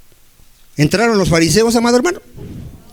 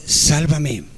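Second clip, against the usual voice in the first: quiet plea; 3 semitones lower, 3 dB quieter than usual. Shown as a demonstration. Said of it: "Dile al Señor".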